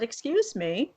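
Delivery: deliberate, incredulous phone complaint; retold confrontation. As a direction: spell out the absurdity to the school. Mother confronts school over phone.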